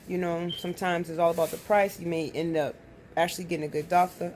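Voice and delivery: speaking with a puffy swollen lip. Real, not acted. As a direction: lips a bit stiff and swollen. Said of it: "I can't believe my lip is really swollen".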